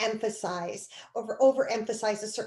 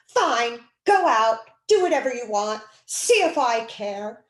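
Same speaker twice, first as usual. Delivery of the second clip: mom's passive-aggressive line; 7 dB louder than usual. Retold or imitated. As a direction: imitate a mom saying fine but meaning no. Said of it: "my mom telling me".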